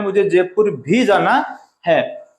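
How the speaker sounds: slow, भी leaned on; stress on भी. Shown as a demonstration. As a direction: press भी. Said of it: "इस कार्य के अलावा".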